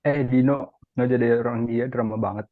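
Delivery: calling out. Acted. Friend calls out during argument.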